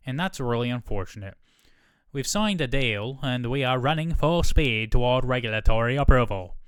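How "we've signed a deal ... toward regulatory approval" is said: a hint of a British CEO voice; lightly put-on British executive; attempted British accent. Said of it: "I don't remember what I did for his voice".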